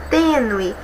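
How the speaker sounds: tênue with a closed ê, not open; closed vowel. Shown as a demonstration. Teacher explaining the circumflex in tênue, closed vowel. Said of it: "é fechado".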